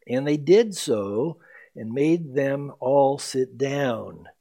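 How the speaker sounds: slow, measured verse reading; scripture reading. Acted. Pastor reading Luke's gospel to the church, slow and measured. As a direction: lay out the verse deliberately.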